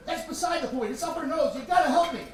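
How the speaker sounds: high, insistent, pushy urging; exasperated plea. Retold or imitated. Father pressing the doctor to act, exasperated plea. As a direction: cut through and demand help.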